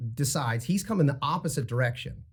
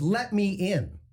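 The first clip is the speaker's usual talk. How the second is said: higher, deliberate repeat of a demand; imitated insistent driver; 5 semitones higher, slower than usual. Retelling the driver answering "what?", mock insistent. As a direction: lightly mimic the line-cutter insisting.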